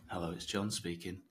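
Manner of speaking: soft, subdued hello; low-key phone answer. Acted. Prospect picking up a cold call, soft and low-key. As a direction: answer the phone quietly, giving little away. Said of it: "what you're talking about there is, is tone matching".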